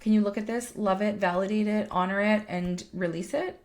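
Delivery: put-on high, eager child's chatter; a little kid tugging at a parent, high and eager; excited kid. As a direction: voice a kid showing off a treasure. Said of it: "like a kid coming to me".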